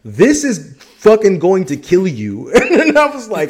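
high laughing retelling; can't stop laughing while telling it; giggling through the story. Real, not acted. Laughing through retold quote.

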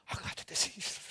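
whispered mock freak-out; mock panic. Churchgoer who coughed once, mock-panicked whisper. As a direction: gasp it out in exaggerated dread.

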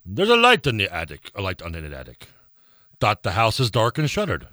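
poem recited in an amateur British accent. Shown as a demonstration. Co-host reciting a favourite poem for a texter, British accent. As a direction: read verse with a put-on British accent. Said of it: "read it and do it in a British accent".

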